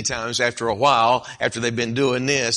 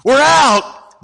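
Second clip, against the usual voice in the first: much higher and louder, alarmed; dismayed host; 13 semitones higher, 9 dB louder than usual. Acted. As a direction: cry out in dismay at the empty shelves. Man finds empty cupboard at night.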